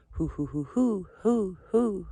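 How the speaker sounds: a gentler retry of the owl call. Shown as a demonstration. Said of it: "Something like that".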